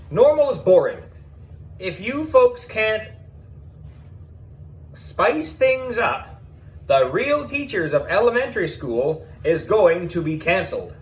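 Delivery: high, brash showbiz producer voice; high, loud and pushy, a producer talking teachers into drama. A narrator's reading. Miss Beard character voice.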